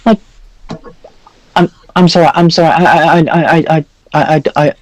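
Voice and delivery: put-on high, fussy old priest voice; jolly priest NPC. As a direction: play a pompous, chatty cleric. High priest flustered and defensive.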